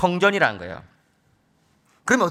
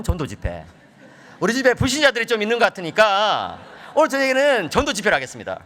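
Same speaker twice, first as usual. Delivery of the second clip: usual speaking voice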